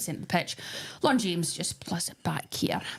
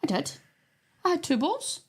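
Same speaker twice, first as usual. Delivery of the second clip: defensive; 7 semitones higher than usual. Real, not acted. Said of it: "this is how argumentative she gets".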